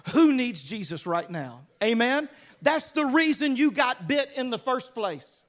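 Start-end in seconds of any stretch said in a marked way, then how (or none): 0.1-1.7 eager call. Retold or imitated. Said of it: "Shake it off and go".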